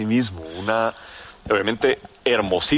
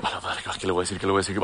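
nervous inner thought; 2 semitones lower, 6 dB quieter, much faster than usual. Retold or imitated. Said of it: "voy acercándome a ella y yo".

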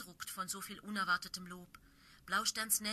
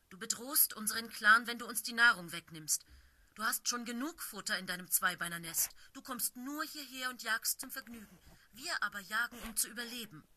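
angry scolding; 3 semitones higher, 4 dB louder than usual. Acted. Blaustern scolds the intruder.

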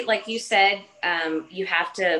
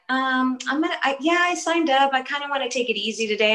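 higher-pitched, stumbling, reluctant client voice; hesitant class client; 7 semitones higher, faster than usual. Retold or imitated. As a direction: imitate a client timidly begging off. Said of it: "they'd be like".

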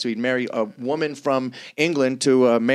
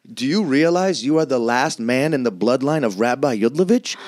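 passionate Jewish elder; 3 semitones higher than usual. Retold or imitated. Synagogue staff urging the last male heir, passionate Jewish accent. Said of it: "spitting in my face with such passion".

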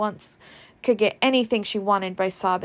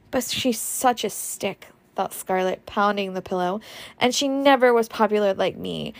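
self-pitying; 3 semitones higher than usual. Acted. Scarlett sulking, self-pitying thoughts.

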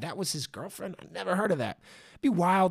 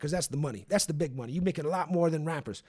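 hiccups; faster than usual. Real, not acted. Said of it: "I'm hiccuping".

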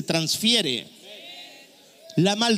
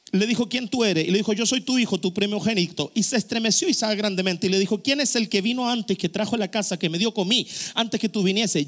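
rapid read-aloud; quick, businesslike Bible reading; scripture reading; faster than usual. Acted. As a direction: rattle through the passage at speed. Reads the Bible passage aloud.

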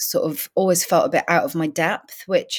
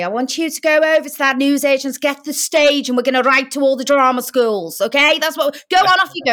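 high, bright-pushed mentor voice urging her on; encouraging drama teacher; 8 semitones higher, 4 dB louder than usual. Retold or imitated. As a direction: shoo her off to the newsagent's with brisk enthusiasm. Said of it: "And Maureen said to me".

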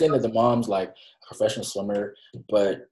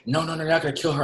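higher-pitched retold disbelief; mock-distressed plea, pitched up; dismayed protest; 7 semitones higher, much faster than usual. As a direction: replay a viewer pleading in disbelief. Acted dismayed reaction to death scene.

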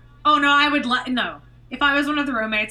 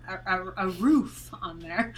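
Canadian; 5 semitones lower than usual. Real, not acted. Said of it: "I got really Canadian".

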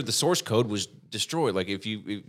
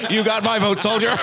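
laughing; 9 semitones higher, 5 dB louder than usual. Pretend. Joking praise, laughing.

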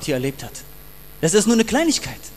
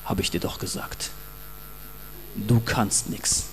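accusing inner voice; 7 semitones lower, 5 dB quieter than usual. Retold or imitated. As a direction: drag it down low like a tempter's taunt. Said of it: "und dann kommt eine Stimme".

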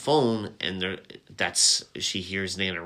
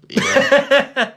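Chick voice; 9 dB louder than usual. Retold or imitated. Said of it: "It's my Chick voice".

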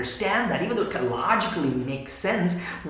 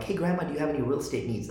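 mock sales pitch; 4 dB quieter, faster than usual. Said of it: "using a script on her".

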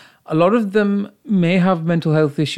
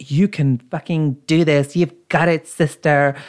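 mock motivational voice. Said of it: "when somebody's like".

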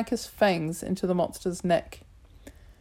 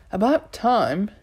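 slow, louder teasing rebuke; mock-impatient chiding; 4 dB louder, slower than usual. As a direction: scold him lightly, drawn out. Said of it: "she chided".

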